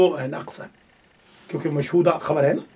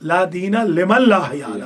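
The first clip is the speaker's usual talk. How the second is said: careful correction; slower than usual. Shown as a demonstration. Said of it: "غلط حدیث پڑھنا حرام ہے".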